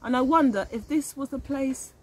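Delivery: put-on reading a picture book aloud to children; gentle read-aloud narrator; story narration. A narrator's reading. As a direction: tell it like a storybook for little ones. Reads picture book aloud to class.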